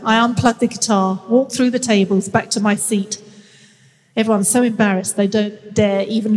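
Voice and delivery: measured author's reading, phrase by phrase; memoir read aloud. Acted. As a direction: read your own story aloud with deliberate pauses. Reads own book aloud.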